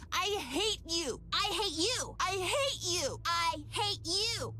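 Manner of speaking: angry. Acted. Both selves trading I hate you.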